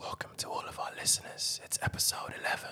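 very soft, breathy ASMR-style whisper. A podcast host doing the episode intro for listeners: ASMR whisper. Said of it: "Let me do the intro in ASMR".

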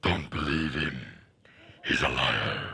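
very low, deep devil voice. Acting out the voices on your shoulder after voicing Jesus, Satan voice. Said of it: "And Satan on your shoulder".

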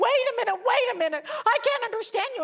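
acted-out scream. Recounting a frantic phone call with a screaming caller, retelling own screaming. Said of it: "And I'm screaming because".

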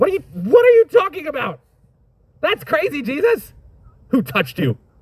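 put-on very high, incredulous outburst with swooping pitch. Acting out the disciples answering Jesus: imitating flabbergasted disciples. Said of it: "just tell him you're flabbergasted".

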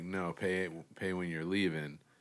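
ordinary talk, nothing marked

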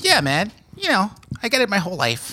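put-on very high, swooping, sing-song young child voice. Playing Jimmy, a 72-year-old guest on the show, the speaker uses Jimmy's childlike voice. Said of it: "Great voice".

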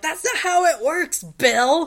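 very high, loud, red-faced exasperated yell. Recalling watching the show on visits home from college, retelling yelling at the TV. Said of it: "I'm yelling at the television like".

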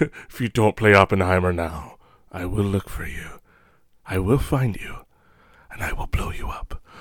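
breathy, low, hushed movie-style delivery. Turning a remark about projectionist skills into a Taken movie quote: quoting Taken. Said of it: "I was just quoting Taken".

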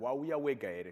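insistent, emphatic, stressed repetition. Retelling how an uncle asked a third time: imitating uncle's emphatic repeat. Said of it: "with emphasis now".

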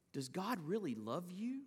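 put-on whisper. Describing how Satan tempts people who are suffering, voicing Satan's whisper. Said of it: "he loves to whisper".

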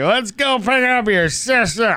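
put-on high, loud, tipsy dad voice.

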